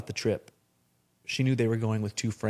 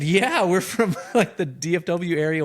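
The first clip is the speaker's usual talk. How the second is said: imitated Texan frat boys; 8 semitones higher, 6 dB louder than usual. Frat boys answer, put-on voice.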